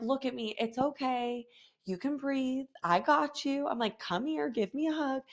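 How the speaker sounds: soft, gentle reassurance; calm him down tenderly; soothing. Retold or imitated. Mother soothing her crying son after he choked.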